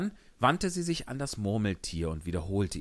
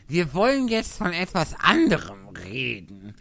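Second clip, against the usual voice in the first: yawning; 9 semitones higher, 8 dB louder than usual. Acted. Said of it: "Faselhase gähnend".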